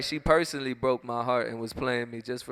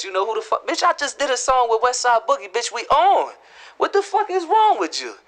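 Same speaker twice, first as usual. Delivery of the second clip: furious phone rant. Acted. Man yelling at his girl for hanging up, furious. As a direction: chew her out, getting angrier as you go.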